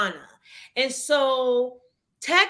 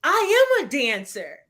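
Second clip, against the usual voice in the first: firm, raised declaration after a pause; declaring; 4 semitones higher, 3 dB louder than usual. Retold or imitated. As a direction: state it as a proud claim, each word set apart. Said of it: "I declared that".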